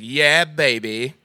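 put-on slow drawn-out yeah baby; Austin Powers. Caller does Austin Powers, a lazily drawn-out yeah baby. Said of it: "he's a guy who's like".

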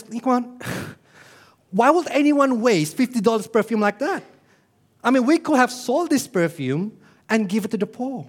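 acted, lightly exasperated complaint; scandalized disciples. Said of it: "They're angry. They're scandalized".

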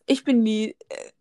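slow, lightly voiced old granny; a hint of a little old grandma. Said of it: "Du hörst dich an wie meine Oma".

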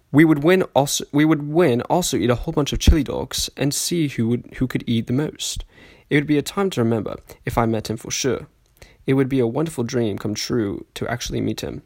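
put-on amateur posh British reading accent; shaky British accent that drifts toward Australian; sophisticated British accent. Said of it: "reading this in a sophisticated British accent".

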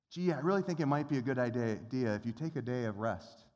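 lightly voiced casual suggestion; mock casual suggestion. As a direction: shrug it off like a mild hint. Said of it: "That is not a quote of Scripture".

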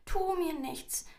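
high, slow begging squeak; pleading mouse. A narrator's reading. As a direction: plead for your life as a tiny mouse. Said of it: "bettelte die Maus".

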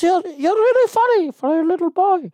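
high, loud put-on accent of an older club owner; squeaky caricature of a club boss praising a kid; mock club owner in a high, thick accent; Chef Tony impression. Chef Tony voiced in a story.

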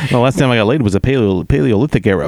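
lightly voiced old borscht belt comic; a hint of a Catskills stand-up. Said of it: "possessed by the Catskill comic".

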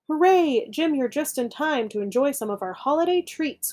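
a hint of a croaky frog chorus; croaked. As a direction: shout a welcome to Jim. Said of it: "croaked the frogs".

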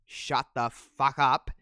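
a hint of Nash yelling, slow and drawn out on shut the fuck up; slow mock yell. Nash yells at everybody, a slow mock yell. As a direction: lean into a slow, mild snarl. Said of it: "Nash ends up yelling at everybody".

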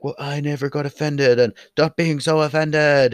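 mock a dismissive commenter; lightly put-on mocking voice. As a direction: imitate someone telling others to toughen up.

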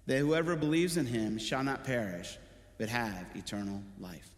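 measured Bible reading to the congregation; steady reading of a Gospel passage; scripture reading. Acted. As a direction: read the passage with weight. Reads scripture aloud.

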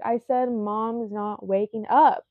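emphatic, exasperated repeat, mildly annoyed; pissed. Retold or imitated. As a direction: retell it pissed, leaning on the last word. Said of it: "I was pissed".

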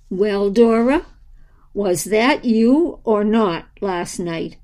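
breathy whisper, slow; softest voice. Acted. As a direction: hush it gently, slow. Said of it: "in the softest voice he knew how".

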